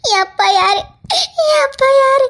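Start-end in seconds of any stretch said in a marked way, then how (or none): 1.4-2.3 higher, louder, breaking into sobs; anguished cry. Acted. Girl begs to know who her father is, sobbing. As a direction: cry the question out in despair.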